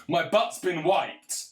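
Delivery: a hammed-up Biden line, said slow and loud; mock Biden. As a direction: drag it out like a confused old president. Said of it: "he's on the White House lawn saying".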